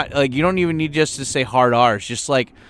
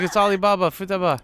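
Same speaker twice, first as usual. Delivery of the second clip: put-on high girl voice; 8 semitones higher than usual. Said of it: "She's like".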